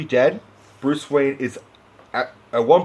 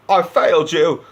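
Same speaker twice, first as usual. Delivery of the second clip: distraught sobbing; 5 semitones higher than usual. Retold or imitated. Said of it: "he's just distraught".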